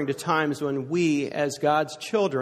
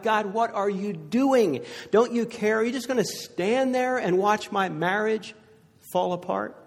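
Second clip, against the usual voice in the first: higher, louder desperate plea; crying out to God; 7 semitones higher, 3 dB louder than usual. Retold or imitated. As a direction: cry out to God over a failing marriage. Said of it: "You cry out".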